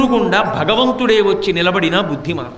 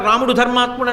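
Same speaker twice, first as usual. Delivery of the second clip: mocking Ravana; 3 semitones higher, faster than usual. అంటావేంటి?.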